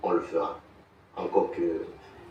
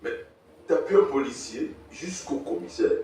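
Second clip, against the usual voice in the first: en riant; 7 semitones higher, 9 dB louder than usual. Acted. Enfants rient du père au commissariat.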